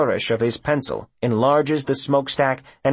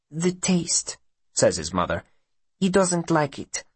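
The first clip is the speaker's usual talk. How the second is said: mother's voice; 6 semitones higher than usual. A narrator's reading. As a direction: explain it in a higher, foreign-tinged voice.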